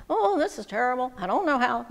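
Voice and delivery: mild acted grumbling; complaining. Storyteller voicing adults that night, mildly complaining. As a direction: grumble it like weary grown-ups. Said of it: "They were complaining".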